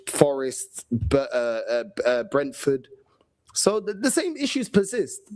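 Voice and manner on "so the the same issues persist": hushed whisper, pressing the point. Real, not acted. Fan whispering that the same issues persist. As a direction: breathe it out like a secret warning. Repeating his point about recurring problems.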